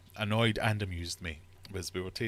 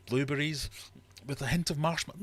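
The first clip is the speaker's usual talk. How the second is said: mocking tasting notes; 7 semitones higher, 3 dB louder than usual. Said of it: "mocking tasting notes".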